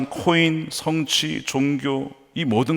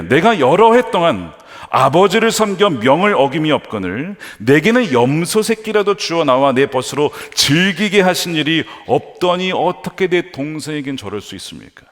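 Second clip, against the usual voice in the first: higher, louder indignant protest; 6 semitones higher, 6 dB louder than usual. Acted. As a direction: voice the elder son's resentful complaint to his father. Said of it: "굉장히 화가 납니다". (분하고 화가 나서 따지듯)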